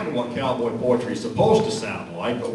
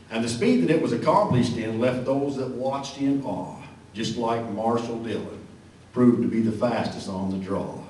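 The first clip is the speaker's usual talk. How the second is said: cowboy poem recitation. Acted.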